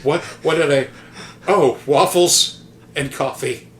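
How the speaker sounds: a man just waking from a knockout, laughing it off; dazed bewilderment. Retold or imitated. Dazed friend waking up confused.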